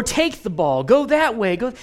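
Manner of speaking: loud, urgent mock commands; sideline yelling. Both sidelines to the five-year-old, yelling. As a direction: imitate grown-ups hollering orders. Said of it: "are yelling".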